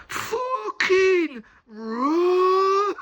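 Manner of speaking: yelled Black Country warning, drawn out high and loud; Black Country shout. Retold or imitated. Mate yelling to flee, in a Black Country accent. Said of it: "in the fucking strongest black country accent".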